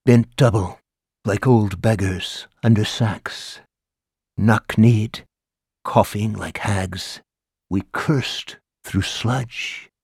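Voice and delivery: slow, solemn reading of the war poem. Acted. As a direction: recite it darkly, drawing each phrase out slowly. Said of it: "in a deeper voice that sent chills ... cried".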